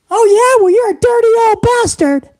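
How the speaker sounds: put-on son-in-law snaps back at the old boss; mock son-in-law retort. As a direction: fire back indignantly.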